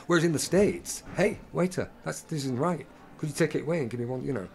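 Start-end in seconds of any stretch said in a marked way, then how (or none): 1.1-4.2 assertive complaint. Acted. American diner complains to waiter.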